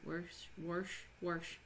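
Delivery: "Warsh" with an added r before the sh; regional pronunciation. Shown as a demonstration. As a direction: try out "Warsh" the Saint Louis way, r and all. Trying out a Saint Louis pronunciation.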